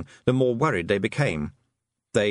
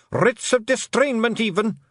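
high, slow Scottish clansman; dread-filled Scots voice; worried Feegle; 12 semitones higher, 5 dB louder than usual. Acted. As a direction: intone the horror item slowly. Feegle names the worst dread.

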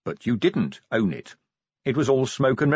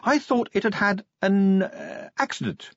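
higher, dropping to a breathy aside on accident; slyly hinting at foul play; sly Angua; 10 semitones higher than usual. Acted. Angua hints at sabotage.

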